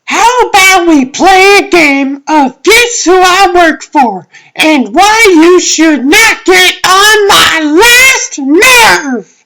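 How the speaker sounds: swooping, fed-up emphasis; exasperated. Acted. Fed-up speaker retorting about the last nerve, exasperated.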